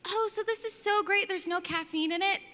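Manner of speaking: high, gushing mock customer voice; hammed-up customer squealing over no caffeine; clueless lady customer. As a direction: play the oblivious shopper, delighted. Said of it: "I swear it's always a lady".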